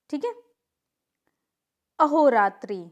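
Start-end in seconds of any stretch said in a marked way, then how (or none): 2.0-2.8 wrong form called out. Shown as a demonstration. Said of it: "अहोरात्रि नहीं होता है".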